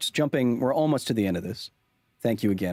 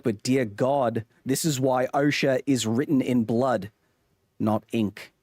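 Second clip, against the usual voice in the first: put-on Australian accent; 3 semitones higher than usual. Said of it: "I give that accent a nine out of ten".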